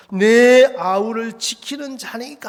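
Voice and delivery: slow, confident declaration; hammed-up brazen denial, drawn out; bold loud retort. Cain answers God after killing his brother, boldly and brazenly. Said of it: "막 당당하게 큰 소리 치는데".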